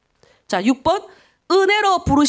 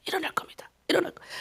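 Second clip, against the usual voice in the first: very soft whisper, repeated to oneself; whispered resolve; 5 semitones higher, 11 dB quieter, faster than usual. Retold or imitated. Pastor telling himself in prayer he will rise, whispered. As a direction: whisper it like a private promise.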